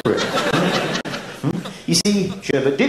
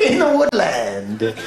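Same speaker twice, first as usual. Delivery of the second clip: slow punchline; slower than usual. Acted. Second punchline, slowed.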